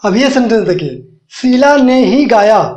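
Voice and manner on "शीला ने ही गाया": शीला stressed, slowed; emphatic stress. Shown as a demonstration. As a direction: lean on शीला, slow and firm. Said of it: "means जोर दे के बोल रहे हैं".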